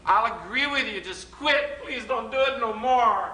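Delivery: high, pleading whine; bored listener begging. Retold or imitated. Audience glazed over by statistics, whining high plea. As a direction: beg him to stop the numbers. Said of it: "their eyes glaze over and they go".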